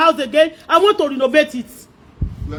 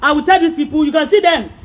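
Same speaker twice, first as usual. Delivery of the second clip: normal talking voice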